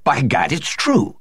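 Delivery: slow astonished exclamation; excited. A narrator's reading. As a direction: blurt it out in shock. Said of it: "his eyes dilated with excitement".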